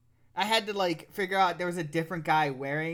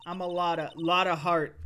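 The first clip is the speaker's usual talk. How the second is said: put-on Southern accent. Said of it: "like, Southern bumpkin type".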